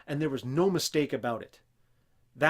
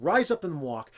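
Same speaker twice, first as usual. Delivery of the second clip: commanding; 5 dB louder than usual. Retold or imitated. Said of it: "He said".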